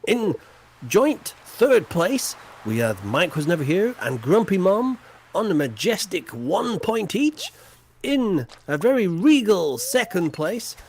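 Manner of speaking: mock-regal results announcement; a lightly hammed-up prize-giving voice; grand announcer. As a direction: announce the winners like a royal herald.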